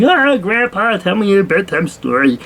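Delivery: put-on a grown grandkid begging like a child; eager grandkid. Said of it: "and they're like".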